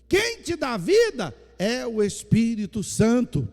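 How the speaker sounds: loud, fervent preaching to the church; full-force preaching. Acted. Pastor to his congregation, loud fervent preaching. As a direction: proclaim it loud to the whole congregation.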